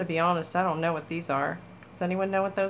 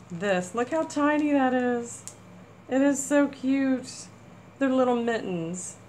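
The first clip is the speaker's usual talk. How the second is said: delighted squeal; 5 semitones higher, 3 dB louder than usual. Real, not acted. Delighted by tiny mittens.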